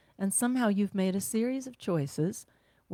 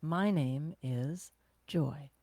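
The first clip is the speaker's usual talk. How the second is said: slow grounded name; 4 semitones lower, 4 dB quieter, much slower than usual. Shown as a demonstration. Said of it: "Just say your name".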